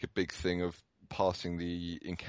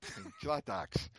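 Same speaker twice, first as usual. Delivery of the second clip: mock Aussie; 5 semitones higher than usual. Replying in Aussie accent.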